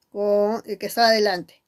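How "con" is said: "Con" set apart as a lone syllable; isolated "Con", pause after. Shown as a demonstration. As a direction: say "Con" as the first separate beat of a split word. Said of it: "Sílaba por sílaba".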